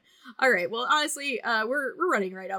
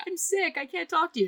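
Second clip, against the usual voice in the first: mock pitiful plea; 9 semitones higher than usual. Retelling own sick plea.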